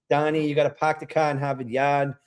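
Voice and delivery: put-on a light Southie Boston accent; a mild Boston Southie accent; Southie impression. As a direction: drop the r's, park the car Boston style. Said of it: "Can I do a Southie impression?".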